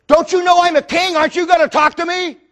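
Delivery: high-pitched kingly affront; indignant demand. Retold or imitated. Herod to a silent Jesus, indignant demand.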